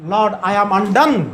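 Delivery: very slow, drawn out; slow solemn. Retold or imitated. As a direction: undone stretched long and falling. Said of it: "literal meaning ఏంటో తెలుసా?".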